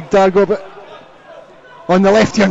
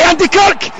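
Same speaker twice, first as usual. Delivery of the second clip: high, drawn-out goal roar; long goal yell; 9 semitones higher, slower than usual. Real, not acted. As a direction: scream the goal for the Pals. Late goal celebration.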